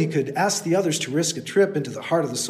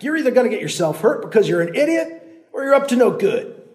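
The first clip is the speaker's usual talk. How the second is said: high, louder; yelling; 6 semitones higher, 4 dB louder than usual. Acted. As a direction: yell it up the hill. Landowner yelling up.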